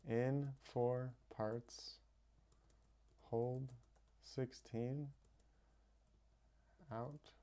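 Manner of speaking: hushed, slow breath cue dropping away; soft slow cue. Shown as a demonstration. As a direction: repeat the cue gently, fading out. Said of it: "we say the mantra mentally".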